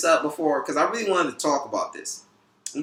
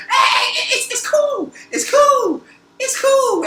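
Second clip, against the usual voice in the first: much higher, laughing reassurance; calm him down while laughing; laughing placation; 5 dB louder, slower than usual. Retold or imitated. Telling the shouting guy on the bus to calm down, laughing in a high voice.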